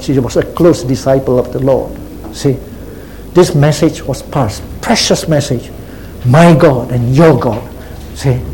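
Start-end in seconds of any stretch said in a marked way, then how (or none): 6.3-7.6 slow, weighted "My" and "your"; stress on MY and YOUR. Acted. Preacher repeating the precious message, slowly stressing "My" and "your". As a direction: spell out the contrast, slowly leaning on "My" and "your". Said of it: "The Lord is laying emphasis on that".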